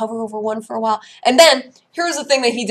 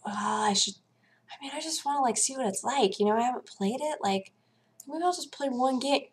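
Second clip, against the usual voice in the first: mock self-persuasion; 5 semitones higher, 10 dB quieter than usual. Retold self-persuasion, soft high voice.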